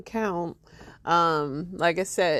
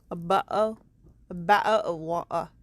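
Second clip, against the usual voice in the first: mock British accent with dropped t's. Commentator teasing UK people with her British accent, mock British. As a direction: try a jokey British accent. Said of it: "That's my accent".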